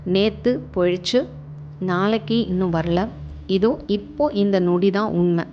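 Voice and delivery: calm meditation guide, with long pauses between phrases; guided meditation. Acted. Guiding listeners to relax and observe their breath, calm meditation voice. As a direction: lead them gently through it, phrase by phrase, leaving room to breathe.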